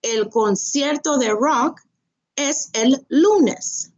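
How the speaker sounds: slow clear answer. Shown as a demonstration. Teacher modelling the answer slowly to students. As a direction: stretch lunes out for learners. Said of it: "So then the answer would be".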